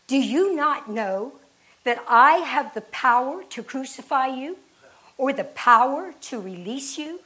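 tower over him with authority; commanding challenge. Acted. Pilate demanding an answer from Jesus, loud and commanding.

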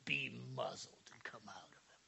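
stern whispered command. Retold or imitated. Jesus casting out a demon in a whisper. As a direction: hiss it at the demon. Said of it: "And he said".

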